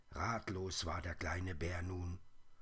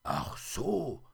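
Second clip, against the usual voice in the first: higher, louder sudden understanding; little bear catching on; interrupting realisation; 6 semitones higher, 5 dB louder than usual. A narrator's reading. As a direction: cut in as it dawns on you. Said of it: "unterbrach der kleine Bär sie".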